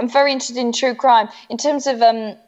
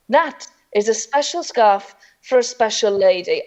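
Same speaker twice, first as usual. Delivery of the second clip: showman dad. Retold or imitated. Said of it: "the scene that he paints out".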